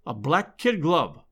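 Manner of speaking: ordinary delivery, nothing marked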